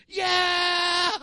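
high, loud triumphant shout; victory cheer. Retold or imitated. Daughter turns to her father after crashing, cheering loud. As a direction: shout like you just won. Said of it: "and goes".

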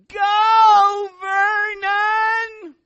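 imitating mom's piercing, high sideline scream; shrill loud yell. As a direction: holler it very high and loud, stretching the words. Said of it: "this shrill, loud voice".

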